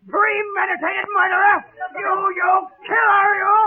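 shouted accusation; outraged accusation. Acted. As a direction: hurl the word killer at him. Accuses him of murder.

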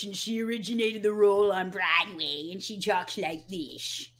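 a hint of campy Carol Channing. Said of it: "I'm doing her voice right now".

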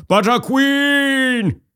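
very high, drawn-out hammed-up cry of power; dark queen Galadriel. Mocking Harris as the dark queen, drawn-out cry. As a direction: stretch it out like the queen turning dark. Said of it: "And then all of a sudden she's like".

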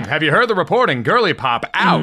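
put-on fast old newsreel Mid-Atlantic accent; Mid-Atlantic accent like a vintage news reader. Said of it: "the Mid-Atlantic accent".

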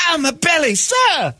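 high squeaky pained victim; being squeezed hard. Acted.

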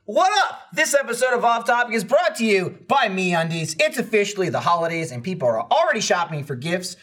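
hammed-up, punchy sponsor read; podcast ad read. Host pitching underwear to listeners for the holidays, playful ad read. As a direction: sell it with swooping emphasis.

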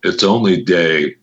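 low, slow, close to the mic. Pretend. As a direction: lean in and purr it low and slow. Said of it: "I'm gonna have to talk like this".

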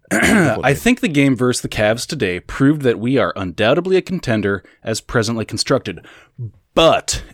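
put-on reading in a South African accent; South African accent, read like a fan letter. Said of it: "Afrikaans accent?".

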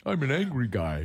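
slow, lightly voiced angry walrus. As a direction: play a grumpy walrus, slowly. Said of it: "this is my mad voice".

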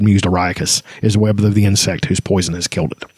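low, measured story narration; grave ancient myth telling. A narrator's reading. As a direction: read it like an old legend. Reads novel passage aloud.

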